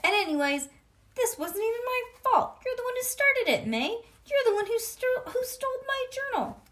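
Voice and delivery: put-on high, loud indignant kid; high loud heated argument; angry protest. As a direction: shout your side of it. Junie arguing back loudly.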